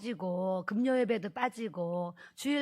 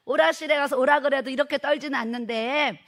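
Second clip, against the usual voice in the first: louder repeat; 3 semitones higher, 6 dB louder than usual. Retold or imitated. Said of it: "사모님".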